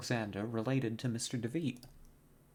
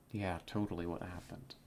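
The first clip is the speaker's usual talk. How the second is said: sarcastic; 3 semitones lower, 3 dB quieter than usual. Real, not acted. Player mocks game explanation.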